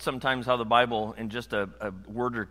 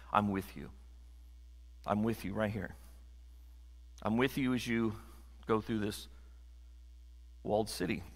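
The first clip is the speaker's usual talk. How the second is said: low, soft, reassuring voice; gentle reassurance; 4 semitones lower, 9 dB quieter than usual. Acted. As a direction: reassure quietly, leaving room between phrases. God reassuring a fearful man.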